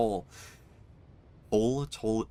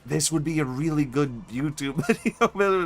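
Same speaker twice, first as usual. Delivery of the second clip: laughing; 5 semitones higher, 3 dB louder than usual. Real, not acted.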